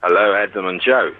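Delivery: put-on South African greeting; South African accent. Shown as a demonstration. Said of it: "give us a blast of your South African".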